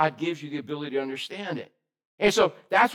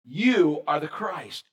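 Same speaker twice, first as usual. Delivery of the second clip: slow solemn declaration; 2 semitones lower, much slower than usual. Retold or imitated. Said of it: "Simon Peter replied".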